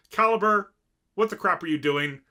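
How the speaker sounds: loud exasperated call; yelling. Retold or imitated. Girls scolding Caliber, loud exasperated yell. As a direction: shout the name across the room.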